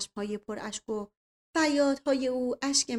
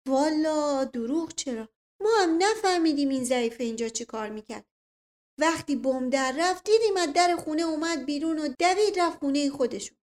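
lightly voiced rustic tale-teller; animated, lilting character voice; garrulous old retainer Mashghasem; 5 semitones higher, 5 dB louder than usual. A narrator's reading. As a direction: chime in like an eager household servant.

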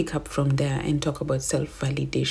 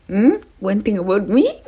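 laughing; 7 semitones higher, 7 dB louder than usual. Real, not acted. Laughing self-quote.

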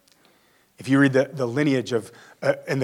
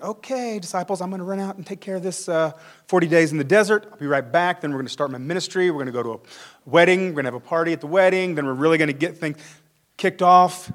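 a breezy, offhand Jesus, fast and a little higher; casual Jesus; 5 semitones higher than usual. Pretend. Jesus telling the disciples he'll be right back, breezy and fast. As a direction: play Jesus as a chatty buddy heading out.

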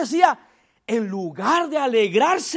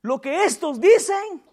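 indignant priests; 4 semitones higher, slower than usual. Retold or imitated. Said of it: "y le dijeron".

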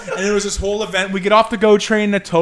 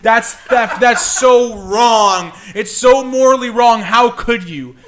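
loud, half-laughing wail of betrayal, a bit higher; mock teary outrage; 4 semitones higher, 5 dB louder than usual. Girlfriend wailing at boyfriend over the train ticket, mock teary outrage. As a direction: ham up a near-crying accusation. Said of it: "almost starts to cry".

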